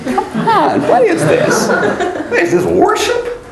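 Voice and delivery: high-pitched, appalled protest; appalled disbelief. Real, not acted. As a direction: protest in disbelief at the silly song. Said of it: "I'm appalled".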